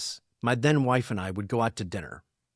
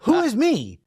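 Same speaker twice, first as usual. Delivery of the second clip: high, louder, laughing confusion; baffled and giggling; laughing bafflement; 13 semitones higher, 6 dB louder than usual. Retold or imitated. Host answering the couple at dinner, high and laughing.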